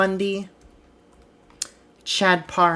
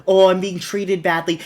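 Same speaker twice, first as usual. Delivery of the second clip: mock self-pity, a touch louder; mocking whine; 4 dB louder than usual. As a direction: imitate their complaining mockingly. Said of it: "That's how you guys sound".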